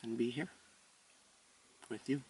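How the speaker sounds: soft, unhurried meditation voice; softly, as if easing into a breath; quiet meditation. Real, not acted. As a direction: settle into stillness, speaking softly with long pauses.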